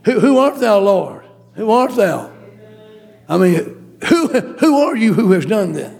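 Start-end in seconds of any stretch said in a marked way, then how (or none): 0.0-2.3 startled question. Acted. Paul retold, stunned by the voice.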